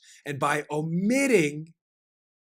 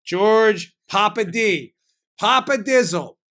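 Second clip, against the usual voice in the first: playful emphasis; 3 semitones higher, slower than usual. Real, not acted. Playful nickname, slow emphatic.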